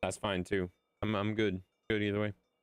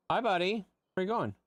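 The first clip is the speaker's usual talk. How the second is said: pet talk to dog; 9 semitones higher than usual. Real, not acted. Greeting the dog.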